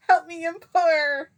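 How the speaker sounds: very high, loud, slow plea; mock wail. Begging for help as a joke, loud mock wail. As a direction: wail it out in exaggerated desperation.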